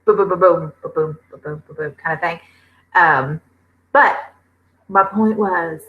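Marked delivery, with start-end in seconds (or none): 0.0-1.9 slow heartbeat imitation. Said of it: "like, slow".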